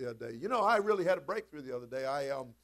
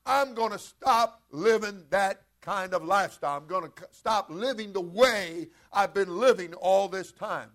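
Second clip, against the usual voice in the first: earnest vow to God; 3 semitones higher, 7 dB louder, slower than usual. Acted. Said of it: "you're to tell God".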